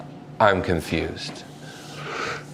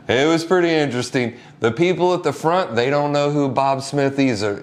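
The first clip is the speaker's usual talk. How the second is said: animated retelling; 8 semitones higher than usual. Retold or imitated. Funeral worker tells the campers about the search, fast and animated. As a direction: tell it quickly with amused energy.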